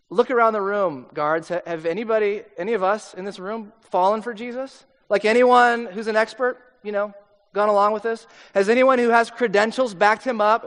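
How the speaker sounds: a touch of sneering challenge to the guards; mocking scolding. Pharisees pressing the guards with a mild sneer. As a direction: lean on the guards, scornful and pushy.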